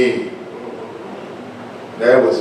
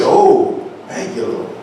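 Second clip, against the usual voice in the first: soft, hushed thanks to God; grateful prayer; 5 dB quieter than usual. Acted. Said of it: "you say".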